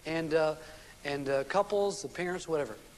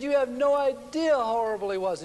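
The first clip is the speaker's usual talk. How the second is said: emphatic; 5 semitones higher, 4 dB louder than usual. Retold or imitated. Retold wife exclaims about husband.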